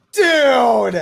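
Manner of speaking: one loud exploding shout; real angry yell; furious shout. Real, not acted. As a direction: blow up at the refs. Outraged at penalty call.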